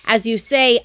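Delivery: loud, falling as you say. Acted. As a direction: build up before the screech. Lead-in before koala screech.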